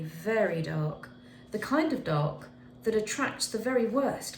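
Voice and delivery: put-on gentle storybook narration for kids; reading to children. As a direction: tell it like a bedtime story to little ones. Teacher reads picture book aloud.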